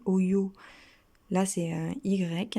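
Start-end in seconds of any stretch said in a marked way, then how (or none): 0.1-0.5 "oio" with weight on the last O; "oio", ending on a stressed O; stress on final O. Shown as a demonstration. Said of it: "avec l'accent sur le O".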